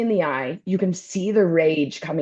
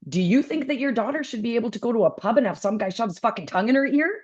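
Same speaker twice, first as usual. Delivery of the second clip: fast lecture; 4 semitones higher, faster than usual. Retold or imitated. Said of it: "I'm like".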